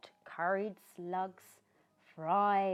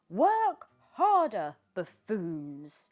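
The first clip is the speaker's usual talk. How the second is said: witch yelling; 2 semitones higher, 10 dB louder, slower than usual. Acted. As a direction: bark orders at the workers. Witch yells.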